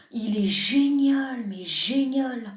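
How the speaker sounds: slow, drawn-out mock rapture; gushing mock praise. YouTuber gushes over a critical comment, mock rapture. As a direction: stretch it out in sham admiration.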